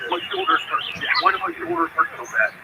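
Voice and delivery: lightly voiced whiny complaint; Jason Brown impression. Impressionist mocking the cohost's sore shoulder, lightly whiny. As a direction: mimic a cohost moaning about his shoulder. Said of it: "There's a very good Jason Brown impression".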